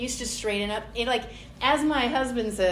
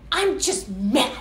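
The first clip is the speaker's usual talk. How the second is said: put-on sulky child; slower than usual. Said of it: "You ever see little kids?".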